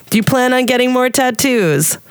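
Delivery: a hint of an eager reporter; interviewer voice. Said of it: "I love your Russian accent".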